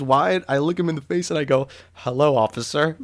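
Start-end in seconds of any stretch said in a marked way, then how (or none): 1.9-3.0 a mildly querulous retold hello, lilting up at the end; querulous greeting. Nervous seller greets a police officer, mildly querulous. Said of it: "like, high-pitched and querulous".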